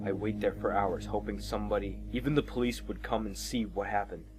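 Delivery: measured, understated storytelling; story narration. A narrator's reading. Narrator recounts the drive past the bridge, story narration. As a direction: narrate it evenly with pauses.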